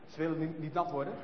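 plain reading voice

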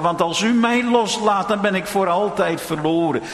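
earnest, pleading prayer to God; a preacher's voiced prayer of surrender. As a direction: beg the Lord to hold on.

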